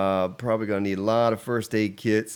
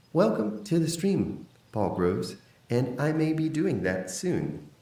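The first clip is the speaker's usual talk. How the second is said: slow mock-villain voice; lightly put-on masked villain greeting; Darth Vader CPAP voice; 7 semitones higher than usual. Streamer welcoming a viewer to the stream, mock Vader voice. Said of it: "Oh, my Darth Vader C pap voice".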